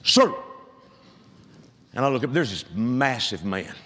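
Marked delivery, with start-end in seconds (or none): 0.0-0.3 high, loud booming shout of Sir; booming call. Retold or imitated. Airline agent calls out to the passing pastor, booming shout. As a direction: call out to him like a big commanding man. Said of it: "this booming voice says".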